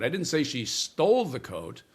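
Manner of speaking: "stole" rises and peaks; stress on stole. Shown as a demonstration. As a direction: question the act: lean into "stole". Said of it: "change the emphasis on a single word".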